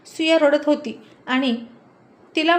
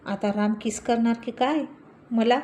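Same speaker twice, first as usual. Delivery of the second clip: usual speaking voice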